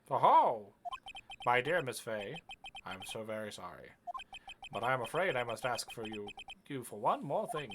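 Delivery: understated theatrical villain; smug villain. Acted. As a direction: play a mock-courteous killer delivering a threat. Voices the game's villain.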